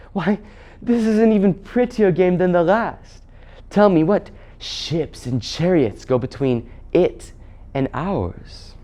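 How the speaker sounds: mock-delighted, starting high then softening; lightly voiced queen toying with children; witch queen. Witch queen treating another world as a game, amused.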